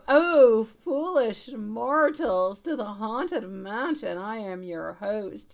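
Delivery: slow booming haunted-house host; ghost host voice. Pretend. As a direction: welcome guests like a spooky mansion host. Reads a Haunted Mansion quote aloud.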